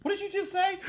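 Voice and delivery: baffled Europeans. Retold or imitated. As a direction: play the puzzled foreigner hearing y'all. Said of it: "They were like".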